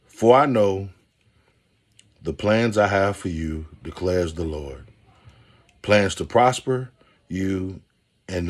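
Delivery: slow, measured verse reading; scripture reading. Acted. Host reading Jeremiah verse to listeners, slow and measured. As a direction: read it out slowly like a blessing.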